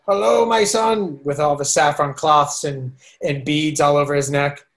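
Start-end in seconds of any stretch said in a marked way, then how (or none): 0.1-1.2 higher, slow, welcoming guru voice; hint of a warm guru greeting. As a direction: greet him like a fond old teacher.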